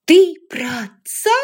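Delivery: put-on a furious young woman throws the accusation; loud cutting jab. A narrator's reading. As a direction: hurl the question at him. Rachel cutting question.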